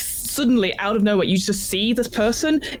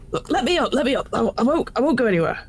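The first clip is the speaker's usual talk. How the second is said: flustered, pitched-up begging; pleading; 4 semitones higher, faster than usual. Acted. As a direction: plead to be released. Pinned man pleads for release.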